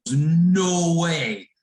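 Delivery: loud, high mock disbelief; surprised. Rider learns driver attended her school, surprised. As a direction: hit it with delighted shock.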